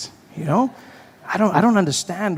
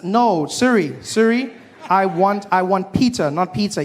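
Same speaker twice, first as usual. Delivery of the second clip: exasperated at Siri; 6 semitones higher than usual. Retold or imitated. Arguing with Siri.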